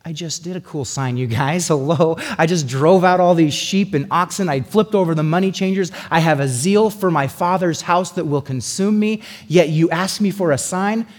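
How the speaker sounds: playful Jesus voice. Acted. Jesus voiced mocking the Jews.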